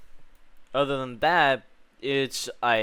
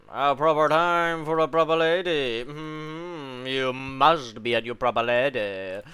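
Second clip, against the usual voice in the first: posh lady voice; 3 semitones higher, 5 dB louder than usual. Pretend. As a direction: put on a snooty aristocrat voice.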